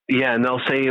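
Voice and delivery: normal talking voice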